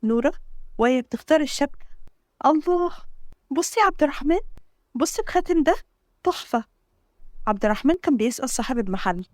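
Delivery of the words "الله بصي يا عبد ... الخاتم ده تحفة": high, bright-eyed delight at the ring. Acted. Bride-to-be shows her fiancé a ring she loves, delighted and high. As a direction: gush over the ring, pitch lifted.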